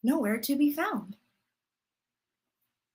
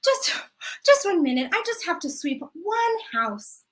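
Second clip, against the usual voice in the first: put-on higher, pleading old woman; grandma stalling; 3 semitones higher than usual. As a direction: sweetly beg for one more minute.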